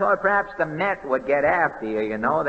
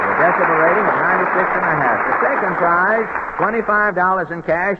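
louder, quick winner announcement; excited announcement; 4 dB louder, faster than usual. Acted. Host announces the contest winner to the crowd. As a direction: build it up like a prize reveal.

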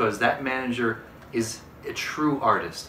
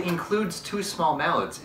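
slow reading; 5 semitones higher, slower than usual. Shown as a demonstration. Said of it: "is a sticker".

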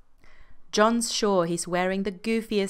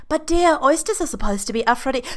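pleading; 8 semitones higher, 7 dB louder than usual. Acted. Freddie pleads during the quarrel.

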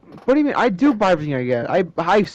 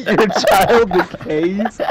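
laughing disbelief; 2 semitones higher, 4 dB louder, much slower than usual. Real, not acted.

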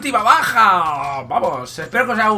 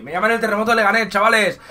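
fast boast; 3 semitones higher, faster than usual. Pretend.

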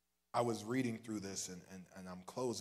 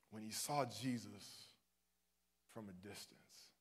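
slow soft; 5 dB quieter than usual. Shown as a demonstration. Slow repeat, fading to quiet.

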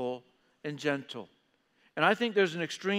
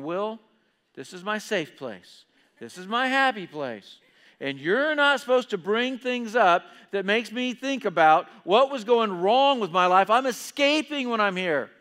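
mock upset; 3 semitones higher, 7 dB louder than usual. Preacher imitating churchgoer whose safe place is threatened, upset. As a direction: imitate an offended listener, rising to a loud complaint. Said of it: "you're already upset with me".

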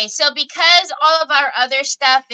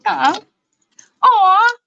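high, louder aww; cooing aww; 10 semitones higher, 4 dB louder than usual. Retold or imitated. Mom coos at her son feeding her, high loud aww. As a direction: coo like a touched mom.

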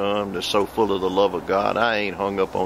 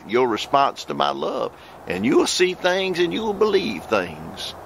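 slow, solemn prophecy in God's voice; prophetic utterance; 3 semitones higher than usual. Real, not acted. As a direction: deliver it like a prophecy, unhurried.

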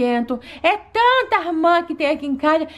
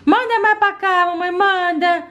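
put-on little girl voice; 3 semitones higher, slower than usual. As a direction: play a small eager child. Doll child eating, asking mum.

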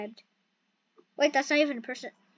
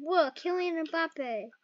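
quiet; 7 dB quieter, slower than usual. Real, not acted. The same name said again, softly.

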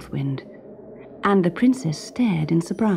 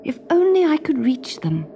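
breathless whisper of wonder; 9 semitones higher than usual. A narrator's reading. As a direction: whisper in awe at the stars. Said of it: "she whispered".

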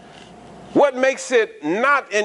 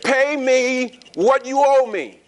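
slow, higher and threatening, each word pressed; a lightly voiced creditor's threat; menacing demand; 5 semitones higher, slower than usual. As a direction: squeeze the debtor for the money, slowly. Slave choking his debtor.

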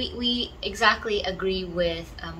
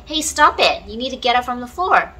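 mock parent scolding a child, higher and louder; firm scolding; 6 semitones higher, 6 dB louder than usual. Shown as a demonstration. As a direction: tell the kid on the floor to stop it, firmly. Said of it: "Just like you would say to little children".

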